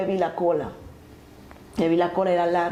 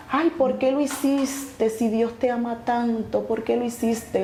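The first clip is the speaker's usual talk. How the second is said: slow, higher-pitched mild lament; imitating a weeping voice; 3 semitones higher than usual. Voice reproaches the dying woman, lightly imitated weeping. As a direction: imitate a tearful reproach, drawn out. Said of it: "Esa voz llorando me decía así".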